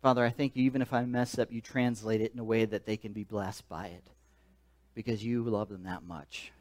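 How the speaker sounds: soft, low closing prayer. Acted. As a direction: pray it quietly and humbly.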